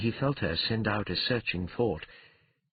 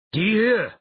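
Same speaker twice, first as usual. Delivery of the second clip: loud, high, sudden cry; spell command; 13 semitones higher, 9 dB louder than usual. Acted. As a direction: call out the magic word forcefully. Calling out a magic word.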